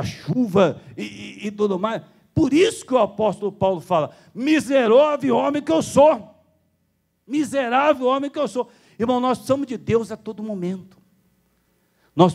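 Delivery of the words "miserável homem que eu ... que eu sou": high, loud repeated lament; fervent lament. Acted. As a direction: cry out the verse with fervor. Quoting Paul with fervor. (lamento fervoroso)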